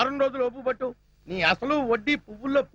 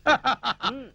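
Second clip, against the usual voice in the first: gleeful stagey laugh; hearty laugh. Acted. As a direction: laugh in approval of a clever trick. Uncle laughs, pleased with nephew.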